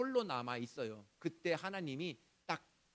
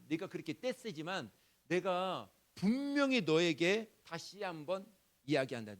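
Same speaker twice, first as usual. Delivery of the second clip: ordinary talk, nothing marked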